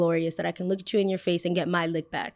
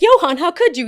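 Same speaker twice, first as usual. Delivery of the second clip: loud, higher cry of betrayal; mock betrayed cry; 10 semitones higher, 10 dB louder than usual. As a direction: wail it like a hammed-up soap heartbreak. Confronting the boy she liked.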